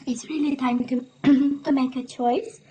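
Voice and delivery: losing her voice, throat catching; hoarse voice. Real, not acted. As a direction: push through a hoarse throat. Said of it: "I'm kind of losing my voice".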